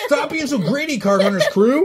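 high, laughing tease; laughing mock scolding. Real, not acted. Host teasing a greedy repeat winner, laughing. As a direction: scold them while cracking up.

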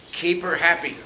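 loud commanding boss; mock boss command; bossy order. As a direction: bark the order at the crew.

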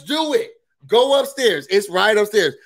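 high, challenging mock dare; daring retort. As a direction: dare him to go ahead.

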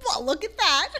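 real laughing while talking; teasing laughter. Real, not acted. Host teasing Tyler about his email, laughing.

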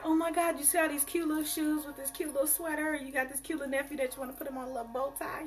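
lightly mock-excited aunt cooing; gushing aunt. Happy aunt shopping for her niece, mock gushing. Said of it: "they got a niece that, like".

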